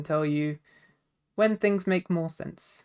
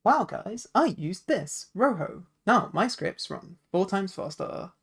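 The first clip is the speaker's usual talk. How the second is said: hard sell ad; 3 semitones higher than usual. Acted. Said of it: "You said that like a commercial".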